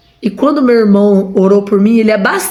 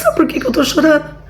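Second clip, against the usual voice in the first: crying while laughing; 5 semitones higher than usual. Real, not acted. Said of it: "Eu não tô chorando de tristeza".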